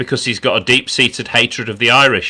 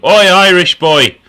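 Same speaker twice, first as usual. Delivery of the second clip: mock playground yell, higher and louder; schoolyard taunt; 8 semitones higher, 7 dB louder than usual. Retelling a schoolyard taunt, mock yelled. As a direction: call it out like a schoolkid jeering. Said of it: "that was his nickname".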